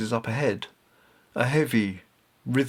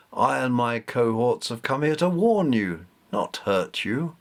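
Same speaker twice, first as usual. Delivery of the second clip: haughty cat goddess. Acted. Bastet the cat goddess speaks.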